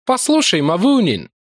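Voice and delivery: lightly voiced Larry, musing aloud; a pondering young soldier; thoughtful Irishman. A narrator's reading. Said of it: "в задумчивости заговорив".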